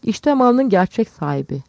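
loud, slow proclamation; bağırma. A narrator's reading. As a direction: call it out high and drawn out. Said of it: "şöyle bağırıyordu". (yüksek sesle, uzatarak bağırma)

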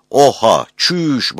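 high loud Oha, çüş; shocked exclamation. Retold or imitated. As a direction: blurt the headline in disbelief. Quoting slang headline.

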